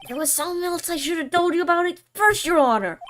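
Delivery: flustered fast detective. Acted. Detective hastily corrects testimony.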